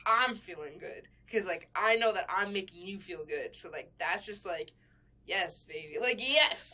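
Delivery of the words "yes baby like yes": sexy voice. Acted. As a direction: purr it like you're flirting.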